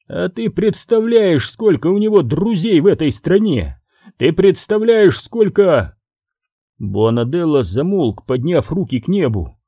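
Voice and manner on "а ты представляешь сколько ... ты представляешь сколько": high, rising alarm, trailing off; frantic disbelief. Acted. Boss aghast at henchman's killing, high alarmed voice. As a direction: panic at the consequences.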